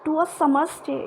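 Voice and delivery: slow recited line; slow verse reading; poetry recitation. Shown as a demonstration. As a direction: read the verse slowly. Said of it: "मैंने आपको समझाया है".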